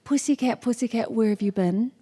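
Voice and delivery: lightly put-on British accent; nursery rhyme in mock British accent. Shown as a demonstration. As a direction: demonstrate a British accent for the audience. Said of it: "like, British accent".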